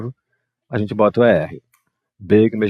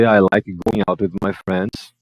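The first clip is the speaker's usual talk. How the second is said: model sentence; slower than usual. Shown as a demonstration. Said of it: "Ó, então a gente vem aqui".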